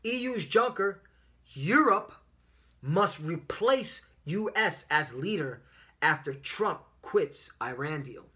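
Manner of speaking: emphatic headline, slowing toward the end; lively reading. Real, not acted. Preacher reading a headline to his followers, lively and deliberate. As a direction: proclaim the headline word by word. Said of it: "read this with some life in it".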